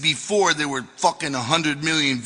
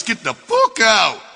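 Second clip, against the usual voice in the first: slow, loud, raised-pitch order; acted shout; 5 semitones higher, 5 dB louder than usual. Telling everybody else to leave the dressing room, acted shout. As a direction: shout it hard, stretching the words.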